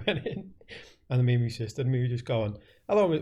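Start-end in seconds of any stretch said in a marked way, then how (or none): 2.9-3.2 higher, louder mock doctor greeting; playfully hams up a doctor's hello; pretend doctor. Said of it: "pretending to be, like, a doctor".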